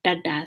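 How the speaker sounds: "dada" said with the tongue back; retroflex D. Shown as a demonstration. Teacher repeating the demonstrated sound, retroflex D. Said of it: "I have the tongue back".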